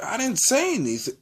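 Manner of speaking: high-pitched mock denial; retold protest. Accused student answering the teacher, high retold protest.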